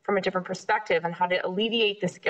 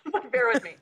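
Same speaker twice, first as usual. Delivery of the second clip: laughing through the words; 3 semitones higher, faster than usual. Real, not acted. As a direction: say it with a giggle. Repeats request while laughing.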